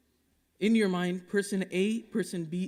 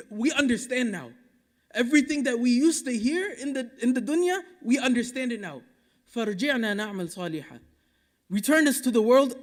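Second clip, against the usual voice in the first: pleading sinner; 3 semitones higher, 4 dB louder than usual. Acted. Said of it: "What are they gonna say?".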